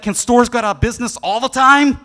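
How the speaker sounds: imitating his son asking with a laugh; laughing kid. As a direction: ask it giggling like a thrilled boy. Son's excited question, laughter.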